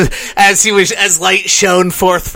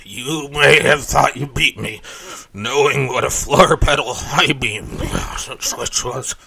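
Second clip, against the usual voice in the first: boomer villain voice; 5 semitones lower, 3 dB quieter than usual. Pretend. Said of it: "did you like my boomer impression".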